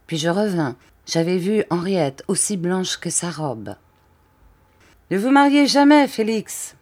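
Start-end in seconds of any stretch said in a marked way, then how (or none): 5.1-6.8 higher, loud ranting cry; crazed shout. A narrator's reading. The count to Félix, shouting higher and louder. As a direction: yell it like a madman losing control. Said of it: "les cris aigus du fou".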